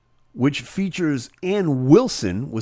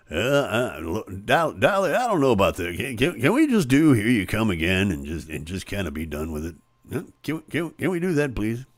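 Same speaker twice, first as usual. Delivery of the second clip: hesitant, stammering mock plea; mock uncomfortable; 5 semitones lower than usual. Uneasy backing band begging a singer for a safer song, mock uncomfortable. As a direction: stumble over the words like a reluctant bandmate. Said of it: "look so uncomfortable".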